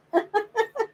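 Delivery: high-pitched burst of laughter. Real, not acted. Reader reacting to an eager client, high laugh. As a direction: let out a high giggle. Laughs after Sharon says she's ready.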